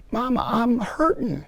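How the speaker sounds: put-on like a small hurt boy to his mom; a little boy. Little boy tugging mom's skirt, mildly childlike plea. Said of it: "a little boy crying, tugging".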